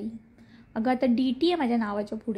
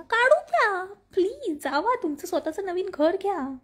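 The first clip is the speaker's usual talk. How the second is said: high, emphatic pleading; exasperated urging; 6 semitones higher than usual. Real, not acted. Host urging complaining viewers to move out, exasperated. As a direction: push them with a raised, insistent pitch. Urges viewers to leave in-laws.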